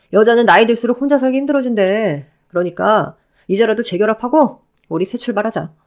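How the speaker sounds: lightly voiced ex-husband, eager and pleading; a hint of a clingy ex overjoyed to see her. Ex-husband calling out to his ex-wife, lightly voiced eager pleading.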